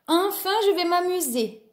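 high, happy exclamation; delighted. Acted. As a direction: cheer as the race begins. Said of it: "se réjouit Loup".

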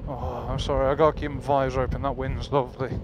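loud over wind noise in helmet; inside a helmet. Real, not acted. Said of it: "making me sound like my".

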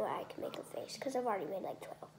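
whispering. Real, not acted. Whispering aside.

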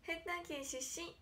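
put-on a light take on a girl's camera greeting; imitating Konaa. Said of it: "って".

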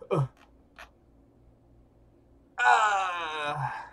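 normal talking voice

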